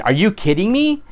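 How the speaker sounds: high, rising, outraged question; shocked that anyone would do that; indignant disbelief. Retold or imitated. Bystander seeing a kid bullied, indignant disbelief. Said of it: "Seeing a kid getting bullied".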